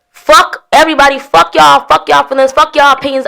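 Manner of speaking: high, loud, punched dismissals; real fed-up rant. Real, not acted. Speaker done being the bigger person, fed-up rant.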